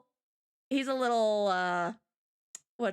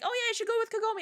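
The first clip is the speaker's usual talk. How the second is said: higher casual mock advice; mock friendly advice; 10 semitones higher, much faster than usual. Friend advises Inuyasha, higher mock voice. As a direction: suggest it breezily. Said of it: "and one's like".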